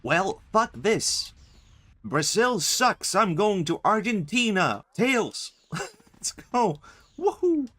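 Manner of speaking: loud, high, hyped-up cartoon hero voice; high-pitched hero yell with a whooping finish; Sonic impression. Player mouthing off as the game's hero, in a loud Sonic impression. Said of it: "doing a Sonic impression".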